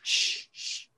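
mock-furtive whisper; hushed whisper. Podcast hosts imitate someone arriving in class, hushed whisper.

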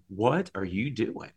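needling voice on the shoulder, lightly voiced; mildly mocking, incredulous questioning; Satan. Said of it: "hear this voice sitting on my shoulder going".

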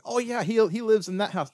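imitated little girl, high and chirpy; high-voiced retold child. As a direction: pitch it up like a helpful child. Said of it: "he meets this little girl".

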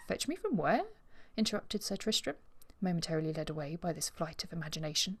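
reading a Regency novel aloud, voicing the characters; story reading. Podcast host reads an excerpt to her co-host, in a storytelling voice. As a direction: read the passage like an audiobook narrator.

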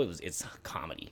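whispered aside; whispering. Real, not acted.

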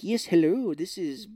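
lightly Irish phone greeting; a hint of Irish lilt; mock Irish accent. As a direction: do a loose Irish caller. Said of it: "doing, like, an Irish voice".

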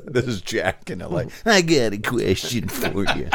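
light, laughing movie-star caller voice; a hint of a smirking Hollywood star; Jack Nicholson impression. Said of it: "Jack Nicholson".

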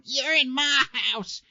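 high, loud, drawn-out holler; slow high-pitched mock yell; homeless old man. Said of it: "that homeless old guy that's, like, knocking on".

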